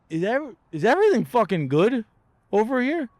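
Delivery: high, pushed-up worried voice; mock alarmed question. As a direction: play it like a nervous traveler asking security. Acting out nervous airport exchange.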